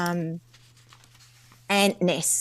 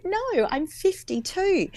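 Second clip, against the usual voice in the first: indignant reply; 11 semitones higher, slower than usual. Retold or imitated. Retold dream, answering the guy.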